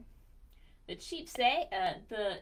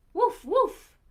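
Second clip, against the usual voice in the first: loud, higher barking woofs; dog woof; 10 semitones higher, 17 dB louder than usual. Acted. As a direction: bark it like a friendly dog. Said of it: "The dog says".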